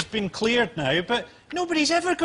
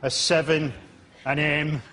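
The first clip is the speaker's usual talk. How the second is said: mock couldn't-care-less game show host; half-hearted; 5 semitones lower than usual. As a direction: list it with long, bored pauses. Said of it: "couldn't care less, half-hearted way".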